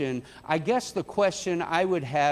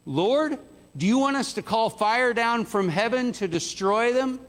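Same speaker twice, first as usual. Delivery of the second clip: higher, keen plea to the Lord; eager disciples; 5 semitones higher, 3 dB louder than usual. Acted. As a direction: ask like zealous followers itching to act. Disciples eagerly ask Jesus.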